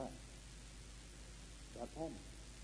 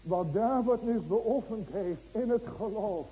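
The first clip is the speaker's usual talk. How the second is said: loud, driving sermon voice; preaching at full force to the church; fervent preaching; 6 semitones higher, 8 dB louder than usual. Acted. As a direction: hammer each question home to the congregation. Preaching peak.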